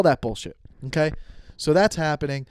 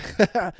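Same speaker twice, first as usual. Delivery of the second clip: imitated small, contained laugh; short stifled giggle, retold; restrained chuckle; 5 semitones higher than usual. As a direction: act out laughing, but not loud. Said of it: "not loud".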